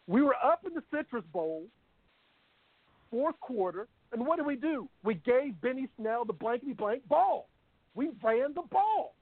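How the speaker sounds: emphatic, exasperated recounting; fired-up rant. Real, not acted. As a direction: hammer the point home, pitch climbing at the end. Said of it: "the end of his rant".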